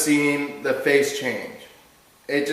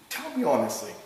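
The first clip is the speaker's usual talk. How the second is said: very calm; 2 semitones lower, 8 dB quieter, faster than usual. Retold or imitated. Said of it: "I was very calm about it".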